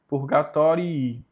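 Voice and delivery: "Purgatorii" ending in a held "i-i"; both Is pronounced. Shown as a demonstration. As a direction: give "Purgatorii" both of its final Is. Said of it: "os dois têm que ser ditos". ("Purgatorii" com os dois Is no final)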